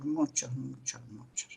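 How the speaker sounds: a trailing, fading "muchos, muchos, muchos"; fading repetition. Real, not acted. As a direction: let the words die away. Repeats, fading away.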